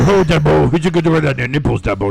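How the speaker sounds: lightly voiced redneck coach; a hint of a hollering Southern coach; Waterboy coach voice. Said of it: "he sounds like the coach from Waterboy".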